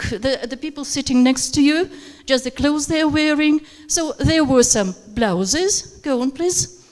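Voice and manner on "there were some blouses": slow, with "blouses" rising at the end; rising list tone. Shown as a demonstration. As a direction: stretch it and lift the end of "blouses". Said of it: "rising tone and falling tone at the end".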